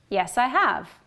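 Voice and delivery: full strong have; stressed have. Shown as a demonstration. Teacher models the short answer with strong "have". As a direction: stress "have" at the end, falling. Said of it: "I'll say the sentences twice".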